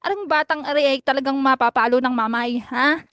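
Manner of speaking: put-on lightly done Batangueña accent, sing-song; a mock Batangas lilt, not overplayed. Bomba taunting quince in a mock Batangueña accent. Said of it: "gagamitan kita ng Batangueña accent".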